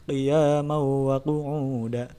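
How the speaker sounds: Qiyamau wa with the hum dropped; mock-wrong, nasal cut short; wrong take. Shown as a demonstration. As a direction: incorrect recitation. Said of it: "tidak seperti itu".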